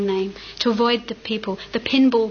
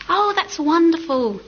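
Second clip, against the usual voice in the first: high, loud delighted exclamation; delighted old man; 6 semitones higher, 4 dB louder than usual. A narrator's reading. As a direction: gush with happy surprise. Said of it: "said the old man".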